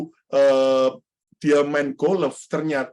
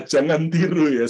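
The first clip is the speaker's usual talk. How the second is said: normal talking voice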